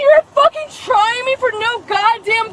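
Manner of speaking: yelling with gum in mouth; chewing gum. Real, not acted. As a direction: shout around a wad of gum. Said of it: "You have gum in your mouth".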